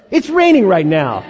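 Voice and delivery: laughing rant. Real, not acted.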